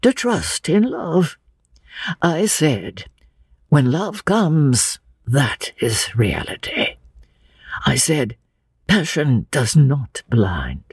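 put-on slow, deliberate old man, full of conviction; earnest old Mister Emerson. Old father tells Lucy his creed of love, earnestly. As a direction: weigh out each phrase slowly.

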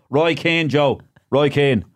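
high-pitched caller's reply; eager phone-in caller. Retold or imitated.

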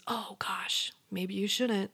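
soft, hushed inner voice of doubt; a quiet nudge from inside, barely voiced; little inner voice. To a listener, voicing the little warning voice inside, hushed. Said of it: "that little voice that goes".

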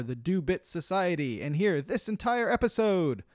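scripted subscription pitch, building in energy toward the sign-off; promo read. Acted. Host pitching listeners the paid bonus episodes, upbeat promo read.

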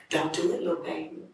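softly voiced, lightly slurred drunk woman; a hint of drunken slur, kept soft. Drunk stranger pleading with little baby, lightly slurred. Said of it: "In her slurred voice".

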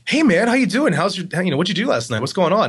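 high, loud, eager hello from a stranger; overly friendly greeting. Retold or imitated. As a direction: gush like a too-friendly coworker. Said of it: "he's like".

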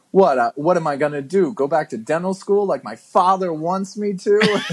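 fast, high, whining question; whiny movie line. Retold or imitated. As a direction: rattle it off like a whiny hero. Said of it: "He goes".

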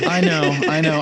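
laughing while talking. Real, not acted. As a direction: laugh through the words. Laughing after being caught.

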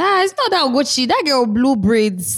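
mock gossiping onlooker. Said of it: "They'll say".

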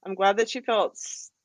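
steadying herself after tears; after crying. Real, not acted. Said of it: "seeing you get a little teary-eyed".

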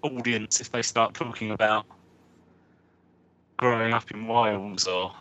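muffled Skype line, voice underwater; bad connection, sound gargled and submerged. Real, not acted. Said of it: "Paul's voice just sound like he's, he's underwater".

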